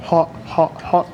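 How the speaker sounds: talking around a hot bite; breathing out over scalding food; mouth full of hot food. Real, not acted. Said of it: "Oh, very hot".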